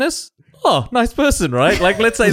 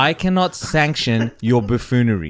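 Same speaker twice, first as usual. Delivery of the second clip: retold whispered put-down; 4 semitones lower than usual. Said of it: "And whispered in his".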